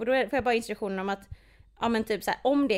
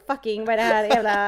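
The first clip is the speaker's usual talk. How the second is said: irritated curse; 6 dB louder than usual. Retold or imitated. Irritated in the crowded café.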